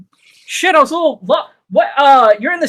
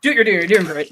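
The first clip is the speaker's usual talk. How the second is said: softer, lower urging; hushed; 5 semitones lower, 5 dB quieter, faster than usual. Acted. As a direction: hush the friend along. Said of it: "I'm like".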